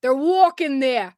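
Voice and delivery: put-on slow, drawn-out Boston accent; mock Boston accent. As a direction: try a tense Boston accent. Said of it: "try and do a Boston accent".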